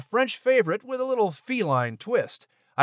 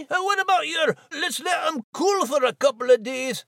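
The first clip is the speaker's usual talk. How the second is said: mock teasing retort; 8 semitones higher than usual. Teasing back, mock quote.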